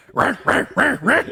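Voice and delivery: high, harsh cat-fight yowls; attacking cat. Retold or imitated. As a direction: mimic repeated loud swipes and snarls. Imitating cat attacking the other.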